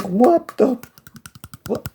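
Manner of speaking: high, incredulous stammer; stunned. Retold or imitated. Friend blames her for not saying earlier, a high stunned sputter.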